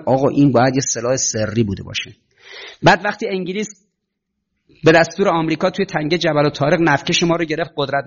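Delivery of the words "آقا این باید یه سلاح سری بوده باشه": a hint of a baffled official; lightly voiced officials guessing at a secret weapon; quoting American officials. Preacher quoting US chiefs to students, mildly baffled. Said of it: "روسا اعلام کردن".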